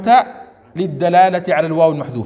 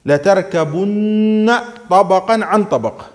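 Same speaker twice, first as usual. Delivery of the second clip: recitation; 3 semitones higher, slower than usual. Shown as a demonstration. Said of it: "ما معنى الآية؟".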